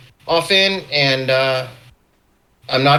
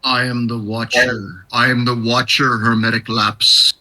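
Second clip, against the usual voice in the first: lightly voiced all-seeing watcher; slightly lowered, mock-portentous voice; solemn Watcher figure; 4 semitones lower than usual. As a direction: intone it like a grave cosmic observer.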